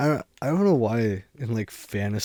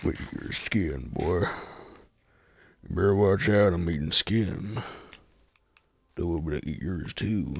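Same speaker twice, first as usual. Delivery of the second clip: low mock madman; 4 semitones lower than usual. Deranged hermit threats continue.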